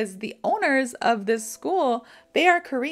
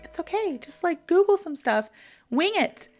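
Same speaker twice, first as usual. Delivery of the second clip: breezy reassuring boss; 7 semitones higher than usual. Retold or imitated. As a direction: brush off the worry in a high voice. Boss soothing the panicking employee.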